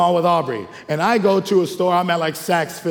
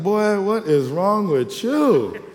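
God scolding; 4 semitones higher, much slower than usual. Retold or imitated. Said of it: "He like".

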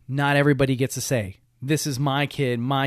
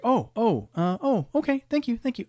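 flustered stranger; 10 semitones higher than usual. Acted. Rebuffed lady backing off.

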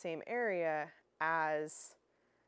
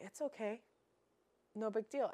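lightly higher, gentle reassurance; soothing dog owner; 4 semitones higher than usual. Retold or imitated. Owner soothing a frightened dog at the vet, gentle. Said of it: "our intention ... is to say".

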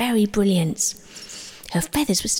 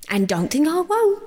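high yell of a furious little creature; 9 semitones higher than usual. Acted. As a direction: shout the threat high. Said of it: "she was yelling".

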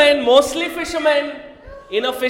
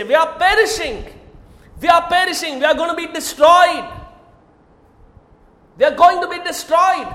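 panicked disciples; faster than usual. Acted. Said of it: "Listen to the words".

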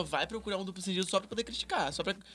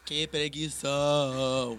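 drawn-out bored groan; 2 semitones lower, much slower than usual. Real, not acted. Bored reaction to campaign.

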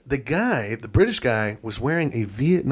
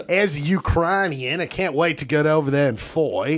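supposed Ukrainian that comes out Australian; Australian accent. Acted. Ukrainian eager to fight, voiced in Australian accent. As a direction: attempt Ukrainian, land in mock Australian. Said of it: "it's just all Australian".

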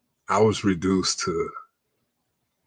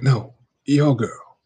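slow imitation of the guy; 4 semitones higher, 7 dB louder, slower than usual. Guy correcting him in retold story.

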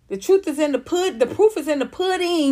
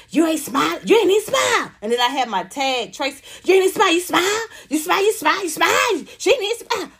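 mocking pushy man; 6 semitones higher than usual. Comic imitates men demanding she smile, nagging. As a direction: badger her over and over to smile. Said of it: "they come in there to me".

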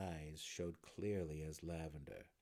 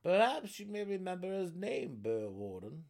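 high, loud gnome voice; 9 semitones higher, 7 dB louder than usual. A narrator's reading. Another gnome prompting the burrow warden, high voice. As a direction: offer it in a raised gnome pitch. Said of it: "another Swerveneblin offered".

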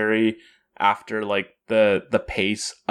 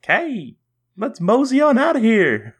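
put-on Southern cowboy accent, higher; 12 semitones higher than usual. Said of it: "like, a Southern accent".

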